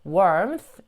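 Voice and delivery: slow "warmth", TH passed over lightly; light TH ending. Shown as a demonstration. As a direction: finish "warmth" with a light tongue-tip th. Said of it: "살짝 스 소리 내시면서 가볍게".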